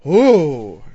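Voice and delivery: loud, falling imitated "ooh"; awed "ooh". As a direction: mimic being wowed by a preacher's voice. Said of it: "Just the sound of his voice is like".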